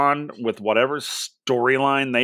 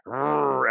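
frustrated growl. Retold or imitated. Angry fan after a match, a short frustrated growl. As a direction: growl through your teeth, annoyed. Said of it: "I was like".

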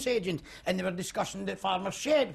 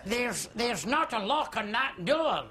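slow, laughing complaint; flustered laughing; 4 semitones higher, slower than usual. Acted. Flustered guest telling the hostess, laughing. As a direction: stammer it out through laughter.

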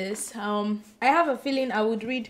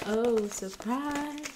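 mock surprise; 5 dB quieter, much slower than usual. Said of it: "we have to be surprised".

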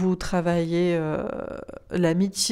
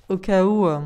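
said through a small laugh; 5 dB louder than usual. Real, not acted. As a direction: chuckle while teasing. Teasing reminder with laugh.

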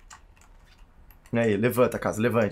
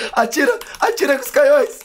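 high urgent shout; excited command; 10 semitones higher, 4 dB louder than usual. Real, not acted. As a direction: urge the cannons on. (comando animado)

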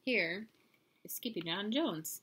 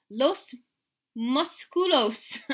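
louder, higher, slow dramatic reveal; chorus of buddies; 6 semitones higher, 7 dB louder, much slower than usual. A narrator's reading. Buddies reveal the answer to hero, slow and grand. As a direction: draw the Spanish out grandly. All dogs give the answer.

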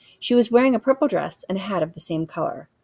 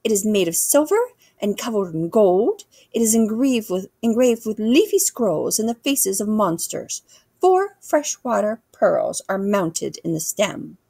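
lightly voiced queen, somewhat raised pitch; regal queen, proud; 3 semitones higher, 3 dB louder than usual. Queen describing her spoon to the boy, lightly regal. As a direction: list the details with royal ceremony.

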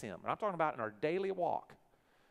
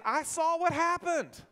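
a higher, slow, loud declaration; voicing God; 13 semitones higher, 7 dB louder, slower than usual. Pastor voicing God to the congregation, slow and loud. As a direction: say it as God, slowly. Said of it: "God is saying".

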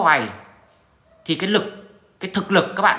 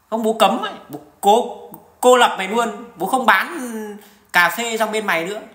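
mock blustering threat; 4 semitones higher, 3 dB louder than usual. Voicing a strong nation's threat.

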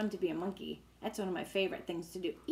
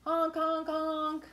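elephant honk; 7 semitones higher, slower than usual. Acted. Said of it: "elephants in the book".

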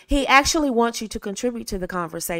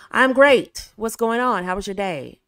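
upbeat. Shown as a demonstration. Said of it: "For example".

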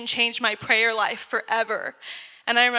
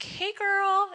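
bright greeting; 8 semitones higher, 4 dB quieter than usual. Retold or imitated. Texting a new friend.

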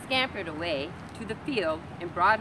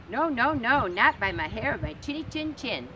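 higher, louder piglet no; loud squeaky refusal; 6 semitones higher, 5 dB louder than usual. Acted. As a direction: squeal it at the wolf. Pig refuses the wolf.

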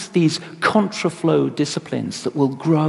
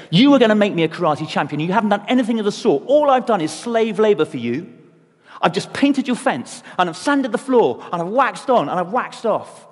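fast, higher, exasperated rant; annoyed complaint; 4 semitones higher than usual. Retold or imitated. Student griping to his teacher, annoyed and fast. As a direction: let the frustration spill out quickly. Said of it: "he's really annoyed".

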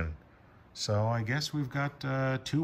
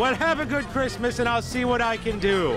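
high jolly Santa voice; booming department-store Santa; Santa Claus voice; 13 semitones higher, 4 dB louder than usual. Acted. Santa talking to a child.

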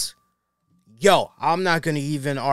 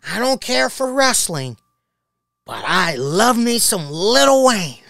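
imitating Skip Bayless; 3 semitones higher, 3 dB louder than usual. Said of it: "I'm just picturing him".

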